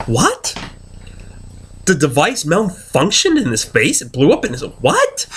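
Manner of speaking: can't believe what you just watched; retold disbelief. Acts out his disbelief while watching.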